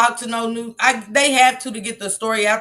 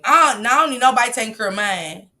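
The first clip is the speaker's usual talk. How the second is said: ordinary delivery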